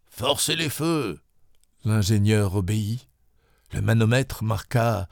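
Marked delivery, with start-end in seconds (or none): 0.1-1.2 commanding order. Acted. Commander orders more steam.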